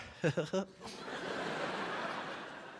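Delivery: long, soft awkward chuckle; hushed, drawn-out bluffing laugh; sheepish laugh. Acted. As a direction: laugh off a wrong answer. Bluffing after failing eye test.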